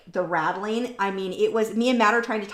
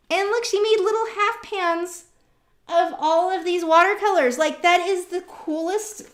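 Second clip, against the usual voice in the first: higher, louder delighted show-and-tell; excited gushing; 8 semitones higher, 6 dB louder than usual. Real, not acted. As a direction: gush over the gift. Showing a gift of paints.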